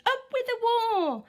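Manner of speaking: a fierce pack shout =122. A narrator's reading. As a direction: chant it for the hunt. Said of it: "And they shouted".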